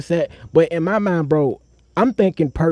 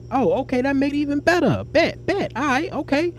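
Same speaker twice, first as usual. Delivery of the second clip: mock excited; 11 semitones higher than usual.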